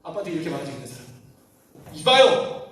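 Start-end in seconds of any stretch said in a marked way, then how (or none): 1.9-2.7 higher, louder indignant "이봐요!"; angry call. Shown as a demonstration. Preacher shows how the son yelled at his dad, loud angry call. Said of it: "이렇게 말한 적 없죠".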